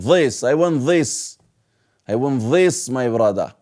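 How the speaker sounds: put-on light Persian accent on I want this; a hint of a Persian accent. Teacher imitating someone with a Persian accent. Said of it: "somebody who has this accent".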